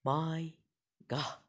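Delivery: gasp, then a shocked oh my God; startled by the story, a real gasp; real scared gasp. Real, not acted. Reader spooked by the text story, gasping. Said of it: "I'm actually getting scared".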